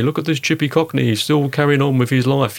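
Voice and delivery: lightly mock the wartime BBC voice; old BBC announcer. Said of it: "Mister Chumney Warner talking from the BBC".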